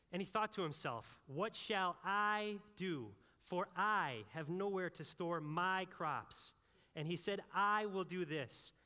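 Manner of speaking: slow, drawn-out musing to himself; self-absorbed rich man. Acted. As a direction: savour every "I" like a man in love with his plans. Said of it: "as I read these again".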